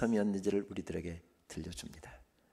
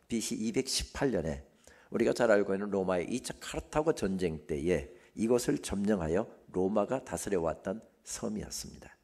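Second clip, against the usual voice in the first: usual speaking voice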